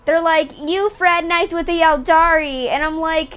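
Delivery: giggly and high, telling a joke; laughing while explaining; amused laughing. Real, not acted. Retells joking exchange, laughing.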